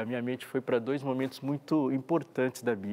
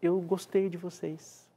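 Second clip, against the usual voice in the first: slow, higher, lingering on eu; tender Creator's voice; 5 semitones higher, slower than usual. Retold or imitated. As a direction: savour each word like a proud father. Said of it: "Criador dizer assim". (voz terna e lenta do Criador)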